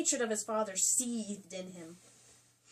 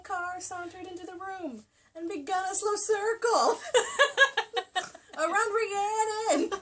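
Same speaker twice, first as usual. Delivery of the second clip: high, louder, laughing through the words; laughing while reading; 9 semitones higher, 6 dB louder than usual. Real, not acted. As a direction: read through a fit of giggles.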